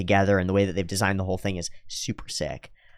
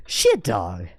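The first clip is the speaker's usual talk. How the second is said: laughing; 3 semitones lower than usual. Real, not acted. Laughing at own bit.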